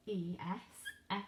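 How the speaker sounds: letter by letter, slowly; slow letter names. Shown as a demonstration. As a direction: spell out E S S slowly. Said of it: "You need to add".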